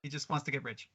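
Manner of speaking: thin, tinny sound like a bad line; metallic, tinny mic sound. Real, not acted. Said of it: "you've gone very tinny".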